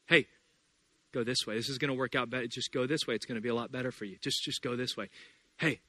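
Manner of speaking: soft, hushed voice from behind; a soft nudging inner voice. Retold or imitated. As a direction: coax gently like a quiet guide. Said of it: "a little voice behind you say".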